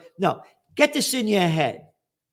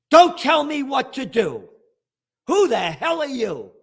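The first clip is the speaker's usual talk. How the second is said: defiant rant; 6 semitones higher, 5 dB louder than usual. Real, not acted.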